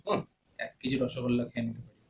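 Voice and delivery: lightly mocking, disbelieving repeat; low-pitched mock agreement, echoing the boast; sarcastic echo. Friend echoing the rasgulla boast, mildly sarcastic. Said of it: "কথার যে টোনটা, এটাকে ব্যঙ্গ করছে".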